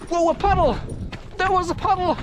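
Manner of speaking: high, wide-eyed wonder; hammed-up astonishment; mock amazement. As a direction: marvel at the puddle like a child. Amazed at a puddle, acted.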